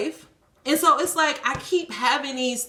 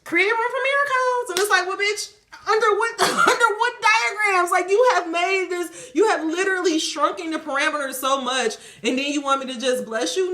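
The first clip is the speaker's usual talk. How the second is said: mock prayer and reply; 8 semitones higher than usual. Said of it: "and then also be like".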